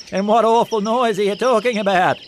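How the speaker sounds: puzzled sheep. Acted. Barney the sheep asking what noise, puzzled and high.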